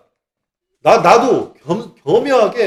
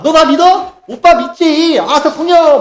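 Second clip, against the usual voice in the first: much higher, louder hyped shouting; nightclub party hype; 10 semitones higher, 8 dB louder, slower than usual. Retold or imitated. Mocking churches as a nightclub, high loud party yells. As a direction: whoop it like a club dancer. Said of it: "막 춤추다가".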